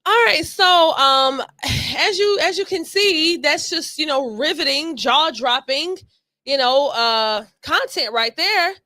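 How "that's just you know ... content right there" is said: slow, drawn-out mock praise; dry sarcasm. Real, not acted. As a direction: sell the praise slowly with heavy irony. Mocking a dull clip just played.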